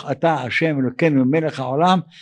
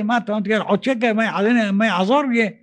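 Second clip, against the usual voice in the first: higher-pitched mock grumbling; mildly indignant, pitched up; imitated cursing complaint; 5 semitones higher than usual. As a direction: complain like an ungrateful beggar. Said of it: "מה, מתחיל לקלל".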